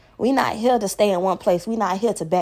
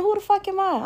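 sister's retort; 10 semitones higher than usual. Retold or imitated. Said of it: "She said".

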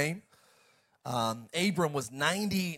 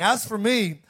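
lightly voiced divine proclamation, higher-pitched; preacher proclaiming as God; God speaking; 5 semitones higher than usual. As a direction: read it as God's solemn promise, in emphatic phrases. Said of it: "and God talked to him".

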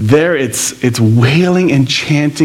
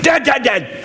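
each "dead" punched, pitched higher; emphatic repetition; 10 semitones higher, 3 dB quieter than usual. Acted. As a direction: drum the word "dead" in three beats. Jesus repeating for slow disciples.

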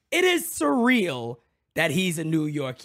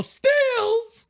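yelling a nickname; 4 dB louder than usual. Retold or imitated. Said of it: "yell out your window".

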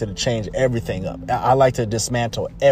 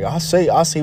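cartoon rooster; 4 semitones higher than usual. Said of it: "that rooster on the cartoon".

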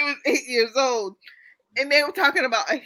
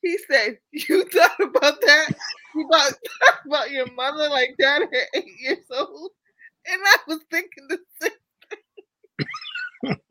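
laugh-crying; 3 semitones higher, 6 dB louder than usual. Real, not acted. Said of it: "wiping your tears over that trifling ass shit".

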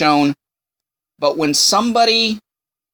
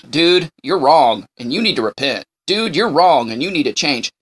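blunt honest friend; 2 semitones lower than usual. Retold or imitated. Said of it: "And, no".

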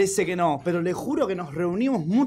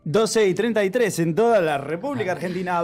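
radio announcer. Acted.

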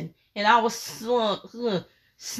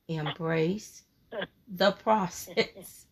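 quiet echo; 3 semitones lower, 8 dB quieter, slower than usual. Retold or imitated. Repeating God's words back.

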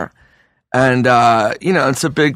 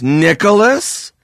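higher, slow mock-sultry Nicholas; teasing drawn-out name; 7 semitones higher, slower than usual. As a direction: draw the name out like a lewd tease. Throne man teasing Nick.

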